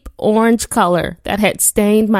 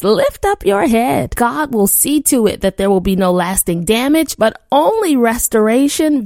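preaching; 2 semitones higher than usual. Acted. Opening declaration of faith.

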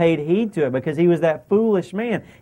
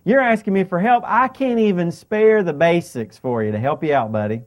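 retold complaint. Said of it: "Nabal complained".

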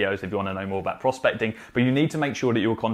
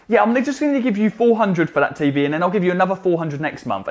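mock haggling customer; 6 semitones higher, 3 dB louder than usual.

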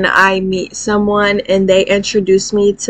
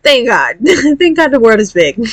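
laughing; 3 semitones higher than usual. Real, not acted. Laughing relief.

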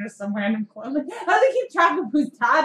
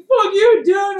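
loud rowdy yell, a bit higher; mock drunk shout; 7 semitones higher, 7 dB louder, much slower than usual. Drunk clones yelling back at the driver, loud. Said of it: "they're like".

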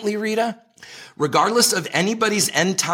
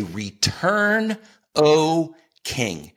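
crying out together; 2 semitones higher, much slower than usual. Retold or imitated. Israel calls its king home in a lifted, united cry. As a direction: call it out as if many voices rise as one. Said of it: "in a united voice, say".

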